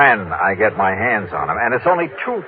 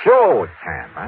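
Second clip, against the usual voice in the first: put-on Texan phone voice; Texas drawl; 3 semitones lower than usual. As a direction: act the rich Texan, folksy drawl. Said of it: "using my best Texas drawl".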